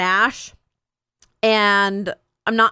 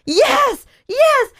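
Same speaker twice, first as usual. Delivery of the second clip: put-on high, sheepish kid's yes; small child voice; 4 dB louder than usual. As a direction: answer like a guilty little boy. Son's retold answer.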